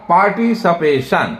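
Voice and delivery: "पार्टिसिपेशन" with a clear sh: par-ti-si-pe-shan; correct pronunciation shown. Shown as a demonstration. Teacher correcting the common mispronunciation for students. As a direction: model "पार्टिसिपेशन" the right way, crisp sh at the end. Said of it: "इसका उच्चारण होगा".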